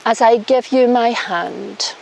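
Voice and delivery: slow, solemn vow reading; officiant vows. Shown as a demonstration. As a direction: lead the vow line by line. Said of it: "repeat after me".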